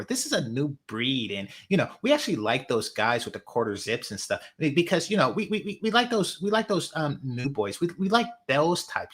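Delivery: lightly voiced valley girl parody; a hint of a breezy valley girl; white girl voice. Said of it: "So I'm gonna talk in my white girl voice".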